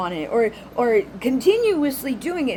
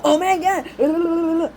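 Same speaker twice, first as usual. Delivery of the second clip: exasperated groan; 5 semitones higher, 5 dB louder, much slower than usual. Retold or imitated. Exasperated at fake small talk.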